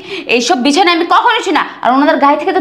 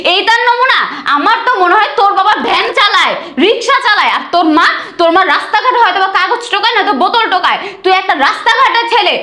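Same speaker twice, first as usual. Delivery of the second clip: high, sneering ridicule of his family; mock them from above, pitch up with contempt; haughty bride sneering at her husband's poor family; scornful mockery; 4 semitones higher than usual. Bride mocks husband's poor parents.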